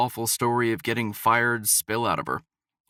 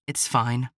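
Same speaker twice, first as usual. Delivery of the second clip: tight voice. Acted. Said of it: "Her voice was tight".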